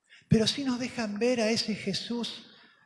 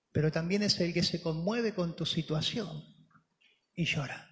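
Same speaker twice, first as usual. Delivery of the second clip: tender; 4 semitones lower than usual. Acted. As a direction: bring it down gently as you reach the tears. Tender point about crying God.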